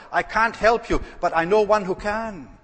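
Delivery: a preacher's ringing declaration; emphatic pulpit call. Real, not acted. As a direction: proclaim it to the back row.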